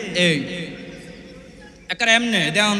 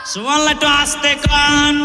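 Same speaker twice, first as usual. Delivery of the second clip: crowd call; 5 semitones higher than usual. Real, not acted. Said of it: "আরো জোরে বলেন না".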